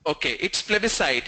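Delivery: plebiscite said as "PLEB-i-site", ending in site; correct plebiscite. Shown as a demonstration. Teacher correcting a student's plebiscite, firm. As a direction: state the right plebiscite firmly. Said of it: "It's not plebiscite".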